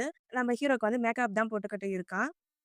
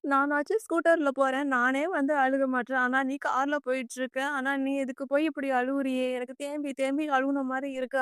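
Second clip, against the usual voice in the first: mildly mock-plaintive, a little drawn out; retold lament; 3 semitones higher than usual. Heroine grumbles at the rich fiancée crying in a car, mild lament. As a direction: grumble in a slightly raised, lingering voice. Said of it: "நம்ம heroine புலம்பிட்டு இருக்க".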